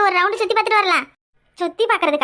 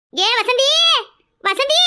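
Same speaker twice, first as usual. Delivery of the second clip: raised-pitch call to a friend; 4 semitones higher, much slower than usual. Acted. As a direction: call her name across a crowd. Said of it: "கத்தி கத்தி கூப்பிட்டுக்கிட்டு கிடந்த". (கூட்டத்தில் கூவி அழைக்கும் குரல்)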